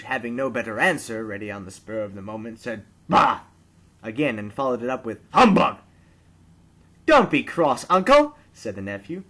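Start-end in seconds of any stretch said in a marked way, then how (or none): 3.1-3.4 loud contemptuous bark; grumpy old miser scoffing; scoffing bah. A narrator's reading. Scrooge scoffs again. 5.3-5.8 loud contemptuous bark; grumpy old miser scoffing; scoffing bah. A narrator's reading. Scrooge scoffs again. 7.1-8.4 high, loud cheerful coaxing; coaxing nephew. A narrator's reading.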